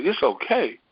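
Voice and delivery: retold wondering echo; echoed reply. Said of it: "And I said".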